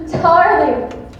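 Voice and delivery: loud, high delighted cry; gushing darling. Acted. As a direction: throw it down the phone line. Gushing into phone.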